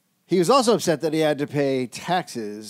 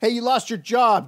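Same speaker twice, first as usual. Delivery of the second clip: high, loud heckle; mock shout; 11 semitones higher, 7 dB louder than usual. Shouting at the man being discussed, high mock yell. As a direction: yell it out like a taunt.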